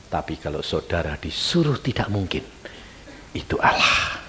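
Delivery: hushed reveal, voiceless; voiceless hush on the point; whisper. Real, not acted. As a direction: whisper it like a secret. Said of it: "dramatic whispered point".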